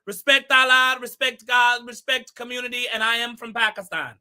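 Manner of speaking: quick burst of Shaba's put-on accent; rattled-off catchphrases in Shaba's accent. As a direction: slip briefly into Shaba's accent. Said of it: "Shaba has been going crazy".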